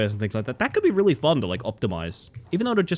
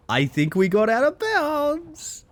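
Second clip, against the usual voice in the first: much higher and slow, drawn out in real delight; excited; 13 semitones higher, slower than usual. Real, not acted. Streamer thrilled at breaking the game, high and drawn out. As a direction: draw it out high, thrilled at the glitch.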